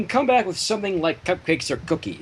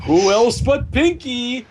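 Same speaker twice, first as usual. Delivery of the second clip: Pinkie voice; 6 semitones higher, 5 dB louder, slower than usual. Retold or imitated. Voicing Pinkie excitedly.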